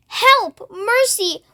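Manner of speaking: high frightened cries for help; panicked cry. Acted. Travellers panic beneath the storm cloud, frightened cries. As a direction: beg for mercy in terror.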